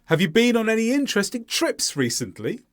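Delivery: high-pitched question, "recently" going up at the end; rising question ending. Shown as a demonstration. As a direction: stress "interesting trips", lift "recently". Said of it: "recently goes up at the end".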